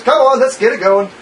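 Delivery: booming voice. Acted. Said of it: "this booming voice".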